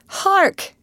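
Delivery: sharp high-pitched cry for attention; urgent, high call to hark; sudden exclamation. A narrator's reading. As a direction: exclaim it high, hushing the others to listen. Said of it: "exclaimed Alice".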